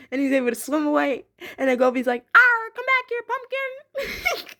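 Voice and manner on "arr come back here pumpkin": a much higher, louder hammed-up pirate yell; pirate shout. Gobi yelling after the escaping fish in a pirate voice. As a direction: arr it out like a cartoon pirate chasing prey. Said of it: "talking in the traditional pirate voice".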